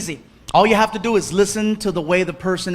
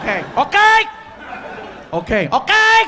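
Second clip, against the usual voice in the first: nervous laughing okays; 9 semitones higher than usual. Retold or imitated. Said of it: "I'm like".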